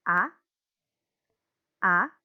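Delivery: A rising like a question; rising second tone. Shown as a demonstration. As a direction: Mandarin second tone on A. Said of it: "naik seperti orang bertanya".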